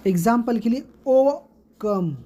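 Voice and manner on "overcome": overcome, slow with the last syllable stressed; "overcome" split up, weight on the final beat; anapest stress. Shown as a demonstration. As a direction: stress COME at the end of "overcome". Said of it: "unstressed और stressed syllable आएगा".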